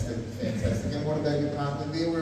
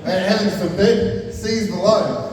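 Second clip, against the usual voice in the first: mock grandiose; 4 semitones higher, 5 dB louder, slower than usual. Mock grand flourish before intro.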